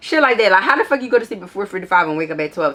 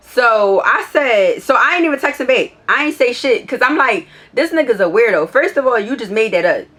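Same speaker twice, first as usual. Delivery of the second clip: higher and louder, exasperated complaining; fed-up rant; 5 semitones higher, 4 dB louder than usual. Real, not acted. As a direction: let the frustration spill out. Fed up ranting about the boyfriend.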